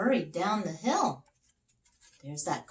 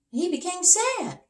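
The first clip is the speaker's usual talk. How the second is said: sad king; 14 semitones higher, 6 dB louder than usual. Acted. King voiced in story.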